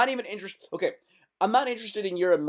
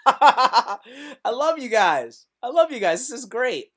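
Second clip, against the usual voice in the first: gushing loudly; 5 semitones higher, 6 dB louder than usual. Real, not acted. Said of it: "delighted at viewers".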